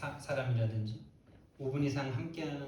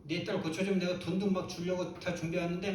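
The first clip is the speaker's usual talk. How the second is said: higher-pitched, mildly indignant grumble; mock angry complaint; 5 semitones higher than usual. Preacher voicing an unbelieving mother cheated of help, mock angry complaint. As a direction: act out an aggrieved outburst. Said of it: "막 욕하고 막".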